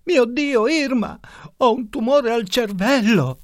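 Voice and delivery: high, loud terrified outburst; panicked cry. A narrator's reading. Arnaldo to his wife, fearing a brain tumour, panicked shout. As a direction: blurt it out in sudden panic. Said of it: "esclamò".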